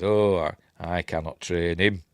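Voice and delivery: put-on quoted Jedi master in Yorkshire accent. Yoda refusing to train Luke, Yorkshire accent. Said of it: "he says in a Yorkshire accent".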